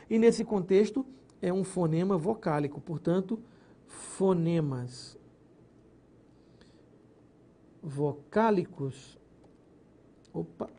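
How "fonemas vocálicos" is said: "fonemas vocálicos" drawn out slowly and firmly; stress on key term. Shown as a demonstration. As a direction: lean on each word to make it stick. (ênfase lenta em "fonemas vocálicos")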